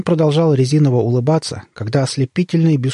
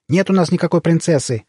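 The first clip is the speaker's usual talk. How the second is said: higher-pitched irritated denial; mild annoyed snap; 6 semitones higher than usual. A narrator's reading. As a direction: snap lightly at unwanted visitors. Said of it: "рявкнула она на пришельцев".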